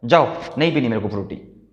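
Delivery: slow, drawn-out pouting whine; sulky child's refusal. Shown as a demonstration. Daughter refusing the Frooti and telling mom to go, sulky. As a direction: brush mom off like a cranky kid. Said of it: "क्या बोला उसने अपनी mummy को".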